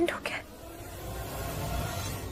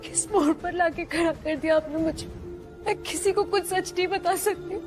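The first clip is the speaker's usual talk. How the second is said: tearful. Acted. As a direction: cry through the confession. Tearful monologue alone.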